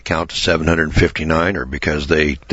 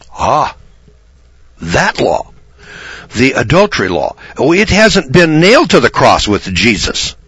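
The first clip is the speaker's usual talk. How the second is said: mock triumph; 8 semitones higher, 4 dB louder than usual. Real, not acted. Mocking exclamation at opponent's admission.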